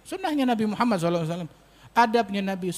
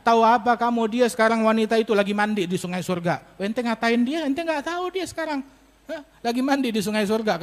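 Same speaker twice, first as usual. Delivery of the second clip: retold anger; 4 semitones higher than usual. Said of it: "Dengar begitu Rasulullah marah".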